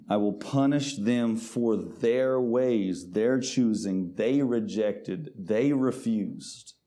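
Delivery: very slow, weighty verse; slow scripture reading. Acted. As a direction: drag each phrase out for weight. Reads scripture slowly.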